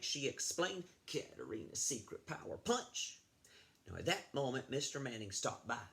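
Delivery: put-on lively read-aloud for children; storybook reading. Teacher reading a story to fifth graders, lively read-aloud. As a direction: read the tale to the class.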